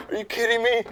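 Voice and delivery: high, loud mock outburst of disbelief; retold freak-out. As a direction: act out losing it at the co-driver. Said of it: "I'm, like, just freaking out".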